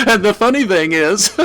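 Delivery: high, loud words through manic laughter; gleeful madman barely able to speak for laughing; laughing madly. Acted. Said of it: "the sound of his insane glee".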